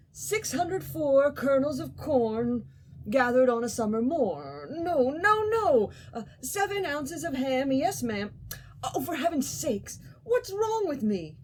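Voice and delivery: high, fretful little ant muttering sums; a fussy ant losing his count; flustered Ant. Acted.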